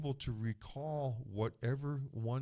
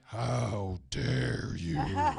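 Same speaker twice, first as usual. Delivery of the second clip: indignant aunt; 6 dB louder, much slower than usual. Retold or imitated. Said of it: "the other half was like".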